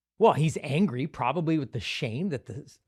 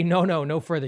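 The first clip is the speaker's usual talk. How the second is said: mock stern rejection; 3 semitones higher, 4 dB louder than usual. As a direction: bark the refusal at the son. Crowd's imagined rejection.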